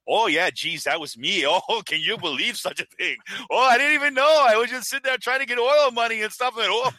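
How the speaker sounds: high, hammed-up clueless guy, words breaking into laughs; mock clueless Carter Page. Mocking Page confessing to the reporter, high and hammed-up. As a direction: play him as a cheerfully oblivious dope.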